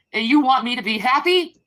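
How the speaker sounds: raging at the people who hurt her; angry outburst. Real, not acted. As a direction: throw the question back, loud and high. Escalating tearful rant at chat.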